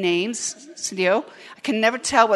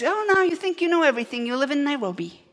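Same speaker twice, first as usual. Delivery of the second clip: scolding grandmother; 4 semitones higher, faster than usual. Retold or imitated. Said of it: "She goes".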